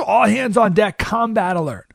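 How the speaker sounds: shouted order. Retold or imitated. Russians called to battle stations.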